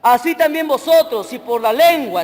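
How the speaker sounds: slow, deliberate Bible reading; scripture reading. Real, not acted. Preacher reading verse seven to the church, scripture reading. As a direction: read the verse out phrase by phrase. Reads scripture aloud to congregation.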